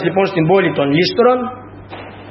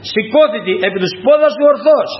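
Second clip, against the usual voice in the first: lightly raised, ringing order to rise; mild acted shout; 3 semitones higher than usual. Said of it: "Είπε με τα μεγάλης φωνής".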